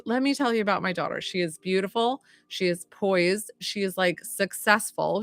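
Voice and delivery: lightly voiced New York mom; proud mom with a hint of New York accent. Medium passes on mom's praise of daughter, New York accent. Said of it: "that's why I'm doing a New York accent".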